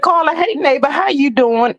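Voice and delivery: a hint of a daytime TV host calling out to a neighbor; Wendy Williams voice. Reading a chat greeting in a light talk show host voice. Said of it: "in my Wendy Williams voice".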